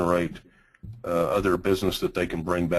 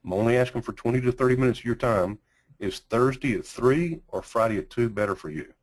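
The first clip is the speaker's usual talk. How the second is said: script read; 2 semitones higher than usual. Shown as a demonstration. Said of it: "here's the script that we use".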